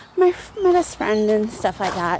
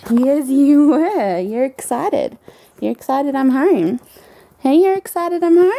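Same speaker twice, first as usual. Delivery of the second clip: put-on tender baby talk; 6 dB louder than usual. Talking to excited pet.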